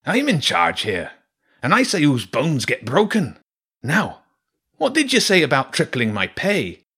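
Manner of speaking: high, loud, bossy rat mercenary; Zen. Acted. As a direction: assert command as a cocky rat. Voices Zen asserting command.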